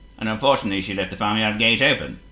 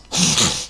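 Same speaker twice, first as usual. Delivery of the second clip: bull bellow; 5 semitones lower than usual. A narrator's reading. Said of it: "Bellowed the bull".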